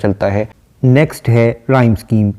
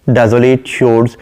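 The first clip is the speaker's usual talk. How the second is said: slow, measured reading of a poem line; poem recitation; much slower than usual. Acted. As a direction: recite it slowly and deliberately. (धीमी, ठहरी हुई कविता-पाठ की आवाज़)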